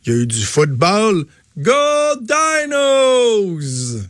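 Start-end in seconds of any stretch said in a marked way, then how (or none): 1.6-4.0 acclamation haute et enjouée; lance-le comme un fan au stade; cri de partisan. Real, not acted. Cris de partisan pour l'équipe. (encourager l'équipe)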